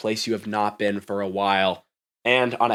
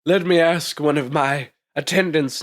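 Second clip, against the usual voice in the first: executive woman; 5 semitones higher than usual. Acted.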